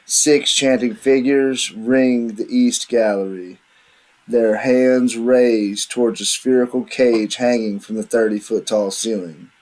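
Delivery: measured game master narration; scene setting. Acted. Game master reads the ritual chamber to players, scene setting. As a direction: read out the room description steadily.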